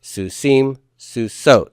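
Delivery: susim and susot stressed on the last syllable; su-SIM, su-SOT, weight on each ending. Shown as a demonstration. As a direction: land late on susim and susot. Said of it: "Those vocalic endings".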